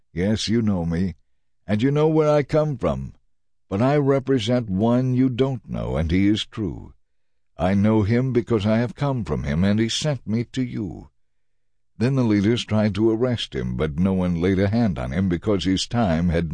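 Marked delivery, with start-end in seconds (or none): 0.1-11.1 raised voice, lifted in pitch, calling across the temple. Acted. Jesus calls out in the temple, teaching, mildly raised voice. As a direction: call it out to the listeners. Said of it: "he called out".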